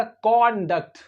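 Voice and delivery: कॉन्डक्ट with a rounded British O in the first syllable. Shown as a demonstration. Teacher showing students another British word, rounded O in कॉन्डक्ट. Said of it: "British English में देखेंगे".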